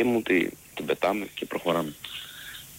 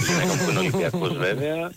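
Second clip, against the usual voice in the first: laughing; 12 semitones higher than usual. Real, not acted. Joking about his wife.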